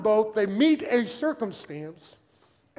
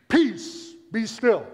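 louder, punched command; firm command; 2 semitones higher, 6 dB louder, much slower than usual. Retold or imitated. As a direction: quote a firm order to the storm. Quotes Jesus commanding the storm.

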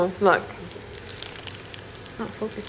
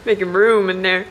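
laughing. Real, not acted. Laughing during the challenge.

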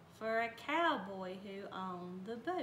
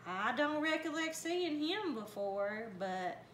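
hick brother voice; 5 semitones higher than usual. Acted. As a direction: squeak it out, puzzled. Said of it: "said Milton".

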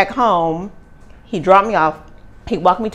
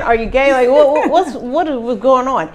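higher, louder mock-startled questioning; retold bewilderment; 7 semitones higher, 6 dB louder than usual. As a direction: fire off baffled questions, voice pitched up. Acted startled questioning of date.

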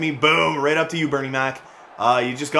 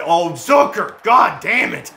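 loud, higher curse breaking into laughter; higher, louder, laughing frustration; 5 semitones higher, 6 dB louder, slower than usual. Real, not acted. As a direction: swear through a laugh. Goal against, laughing curse.

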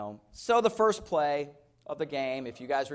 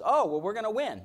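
wife's calm prediction; 7 semitones higher, 6 dB louder than usual. Retold or imitated. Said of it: "she goes".

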